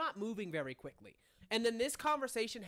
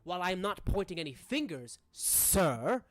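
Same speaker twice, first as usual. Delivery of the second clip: lightly voiced, deferential formal gentleman; measured protest with stressed words; formal manor character; 6 dB louder than usual. Manor gentleman answering an accusation, formal and pointed.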